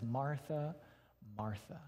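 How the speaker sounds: tender call. Retold or imitated. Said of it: "imagine the tone with which he said it".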